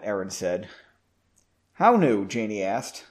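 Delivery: measured, expressive read-aloud; story narration. A narrator's reading. Narrator telling of guests in Janie's home, expressive story reading. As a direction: narrate the tale, lightly acting the dialogue.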